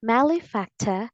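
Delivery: malefactor with no R at the end, closing on "tuh"; British pronunciation. Shown as a demonstration. Teacher shows learners the British version, British pronunciation. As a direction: say malefactor the British way, final R dropped. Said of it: "is the British English pronunciation".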